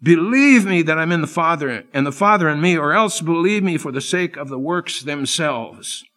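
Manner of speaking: Believe me leaned on as an earnest plea to his disciples; pleading Jesus. Acted. Jesus pleading with his frightened disciples, earnest and urging. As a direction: plead with them, urging them to trust. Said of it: "as he pleads with his men".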